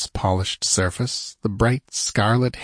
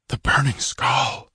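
hushed, shuddering exclamation; understated shudder of fear; fearful whisper; 4 semitones higher than usual. Acted. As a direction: say it as an awed, frightened crowd. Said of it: "shuddering whisper of fear".

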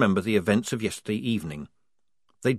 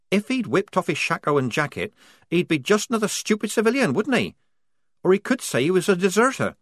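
Polly accusing; 10 semitones higher than usual. A narrator's reading. Polly blaming Strappy to the squad, indignant and higher. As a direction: drag out come on at the end.

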